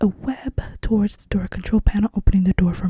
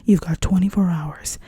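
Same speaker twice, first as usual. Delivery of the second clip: delivered movie line. Acted. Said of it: "He's gonna say".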